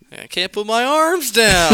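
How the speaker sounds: high laughing complaint. Real, not acted. Bundled in heavy jacket.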